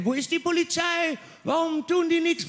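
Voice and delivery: a squeaky, whining demand for police; mock crowd yell. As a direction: crowd on the Domplatte calling for police, mock high wail. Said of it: "Was haben sie letztes Jahr gebrüllt?".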